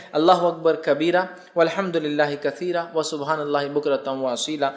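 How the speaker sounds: measured, devout chanting of the takbir; takbir recitation. Shown as a demonstration. Teacher showing listeners the Eid takbir, devout chant. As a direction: recite each Allahu akbar steadily, as in the mosque. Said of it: "دوسرا آپ یہ کر سکتے ہیں".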